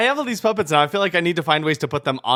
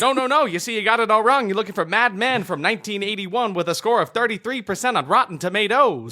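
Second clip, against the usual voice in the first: announcer voice; 3 semitones higher than usual. Acted. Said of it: "This is my announcer voice".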